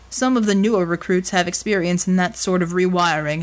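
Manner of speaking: lightly voiced low, serious man; understated, practical reassurance; big man, reassuring. Voices Bulwark explaining treatment.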